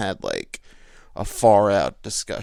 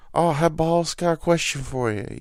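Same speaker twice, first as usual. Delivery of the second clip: coworker voice; 7 semitones higher than usual. Retold or imitated.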